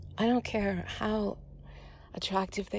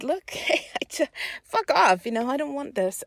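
higher, loud outburst, then easing; angry refusal; 5 semitones higher, 6 dB louder than usual. Retold or imitated. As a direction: retell telling him off, heated. Retelling her refusal to date.

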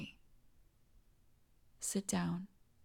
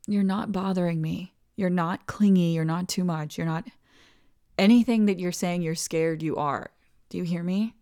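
firm reassurance; 7 dB louder than usual. Acted. Insisting reassurance to partner.

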